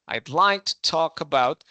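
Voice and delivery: "I'd like to talk about" with the weight on "like"; stress on like. Shown as a demonstration. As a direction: lean on the verb "like", not on "I". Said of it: "no menciono tanto el yo, sino más el verbo".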